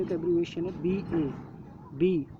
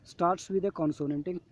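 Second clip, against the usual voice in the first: slow reading; much slower than usual. Shown as a demonstration. Reading the worksheet rule.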